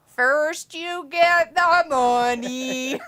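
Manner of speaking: slow Tony Montana cholo drawl; very slow chicano cholo voice; chicano accent. Shown as a demonstration. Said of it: "say it like a cholo".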